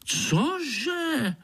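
very high, sharp outraged cože. A narrator's reading. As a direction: squeal it in indignation. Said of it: "Pišta se rozčílil".

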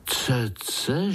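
spoken aloud with a questioning rise; voiced amazed question. Young spiders repeating the strange word aloud, puzzled. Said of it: "žasli pavoučci".

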